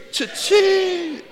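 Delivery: high, loud slot-machine yell; Cha-ching! shouted high at full voice. Shown as a demonstration. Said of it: "Say it like you do when you're pulling the slots".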